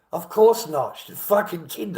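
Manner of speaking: loud, high, furious shout; angry outburst. Real, not acted. Ranting to viewers about his lawyer, furious shout. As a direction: blow up at the absurdity.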